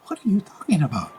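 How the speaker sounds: hushed, breathy retold disbelief; incredulous whisper. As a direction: whisper it as if you can't believe your ears. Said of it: "And I went".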